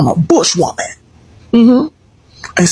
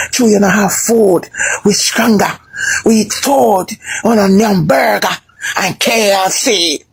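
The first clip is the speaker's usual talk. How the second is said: imitating Jamaicans; slower than usual. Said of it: "And then I heard them say".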